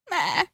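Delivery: high goat bleat; little bleat. A narrator's reading. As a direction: bleat like a small kid goat. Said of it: "he gave a little bleat".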